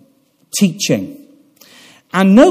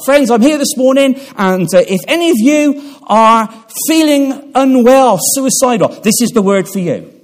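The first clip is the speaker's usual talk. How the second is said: mock modern preacher; 5 semitones higher than usual. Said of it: "in a lot of modern day preaching".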